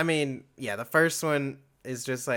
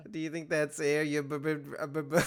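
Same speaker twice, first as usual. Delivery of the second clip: Foghorn Leghorn voice; 4 dB louder than usual. Retold or imitated. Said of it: "foghorn leghorn".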